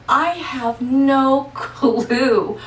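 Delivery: slow, laughing through the words; laughing at herself, stretched out slowly. Real, not acted. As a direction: chuckle as you admit it. Laughing at her own story.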